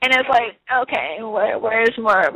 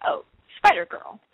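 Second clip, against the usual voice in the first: high squealed fan label, pitched way up; mock fan squeal. Fan spotting her costume, squealing high. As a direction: toss it off high like a gushing fan.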